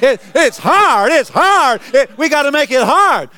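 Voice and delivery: high, pleading mock whine of religious folk. Preacher mocks religious people to congregation, high whine.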